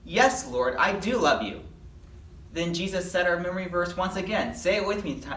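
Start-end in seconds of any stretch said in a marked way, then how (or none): 0.0-1.6 mildly exasperated, louder insistence; acted, slightly impatient reassurance; a little frustrated. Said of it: "is a little frustrated".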